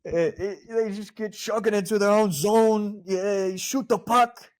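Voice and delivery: high, hammed-up Canadian accent; Canadian accent muddled with New York; bad Canadian accent. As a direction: overdo a Canadian hockey fan accent. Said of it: "Try to do a Canadian accent".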